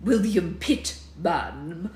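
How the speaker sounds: very slow, loud self-introduction; William Pitt. Acted. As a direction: draw the name right out as a statue. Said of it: "said a ginger figure with horrible glass eyes".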